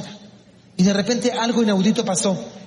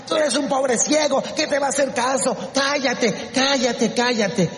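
raised, quick belittling rebuke; scornful hushing; 5 semitones higher than usual. Acted. Crowd silencing a poor blind beggar, scornful hushing. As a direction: put him down and shush him repeatedly. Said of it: "la gente lo callaba, la gente lo humillaba".

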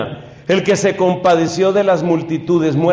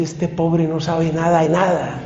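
Cristo sonriente. Pretend. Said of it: "Cristo se sonríe y dice".

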